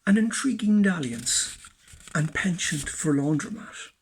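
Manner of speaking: measured spoken-word verse with pauses; deliberate poetry reading; poem recitation. Acted. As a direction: recite it phrase by phrase, dropping away at the end. Recites own poem, Laundromat.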